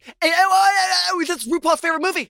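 Michelle Visage impression. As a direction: call it out like a fussy judge. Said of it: "Michelle Visage is always be like".

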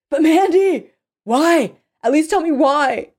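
high, loud, anguished appeal; desperate plea. Acted. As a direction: cry out for a reason. Captive begs for a reason.

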